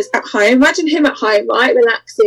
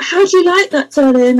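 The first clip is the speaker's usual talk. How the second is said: mock-seductive mistress; 3 semitones higher than usual. Acts out teasing the blindfolded client.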